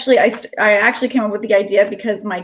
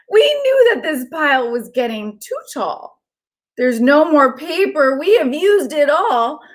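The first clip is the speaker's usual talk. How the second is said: lightly voiced worried splatters, a bit higher; small fretful cry from the crew; a hint of anxious little paint blobs; 5 semitones higher, slower than usual. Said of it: "heard a small cry".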